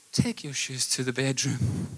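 soft parent voice. Shown as a demonstration. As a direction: tell the kids softly, without raising your voice. Demo contrasted with the shouted take.

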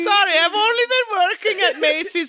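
very high, hammed-up Santa apology; inept Santa. New Macy's Santa apologising, high hammed-up voice. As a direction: plead your case in a high mock Santa voice.

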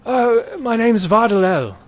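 a hint of a weary merchant stuck in a tree; lightly voiced merchant. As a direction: play the stranded merchant pleading to get down.

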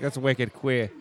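light Boston accent on "wicked queer". Shown as a demonstration. Improviser showing castmates how it passes, in a Boston accent. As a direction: say it like a Boston local. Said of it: "if it's in a Boston accent".

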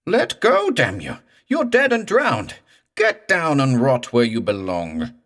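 high, thin, loud screech; screeching crescendo. A narrator's reading. Morse beating off the drowned man, screeching crescendo. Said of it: "his voice went screeching up to a high, thin crescendo".

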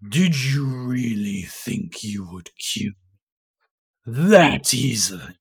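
slow, low, throaty undead taunt; a risen corpse mocking its killer; weird corpse voice. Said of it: "Oh, I like this voice".

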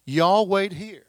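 a light Texan drawl on y'all; preacher tries out a hint of Texan. Shown as a demonstration. Preacher tells disciples to wait, light Texan accent. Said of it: "I'll say it in Texan language".

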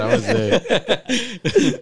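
high, slow words through laughter; laughing. Real, not acted. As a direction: laugh while saying it. Repeating quote, laughing.

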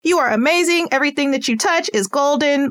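put-on high, gushing praise for a toddler; excited praise. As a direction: pile on the praise like a hyped parent. Parent hyping child at drop-off.

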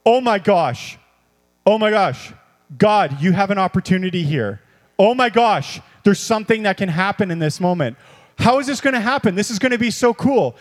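eager, rising thrill; excited preacher voicing his own thoughts. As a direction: act out bubbling excitement at what could happen. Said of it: "my excitement goes".

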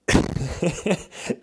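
airy breathy giggle; a high unvoiced laugh at own joke. Real, not acted. Vlogger laughing at his own drink joke, airy.

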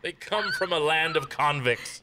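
slow, hushed joking whisper; conspiratorial whisper. Pretend. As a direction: lean in and whisper it like a secret. Joking aside about Aussies.

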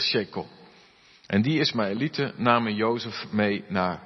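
measured Bible reading voice; reading the Genesis passage to the church, measured and clear; scripture reading. A narrator's reading. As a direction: read it aloud to the congregation.

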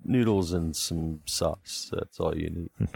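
dopey macho hunk, slow and dumb; meathead voice. Acted. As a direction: drawl it like a dim tough guy. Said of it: "his meathead voice".

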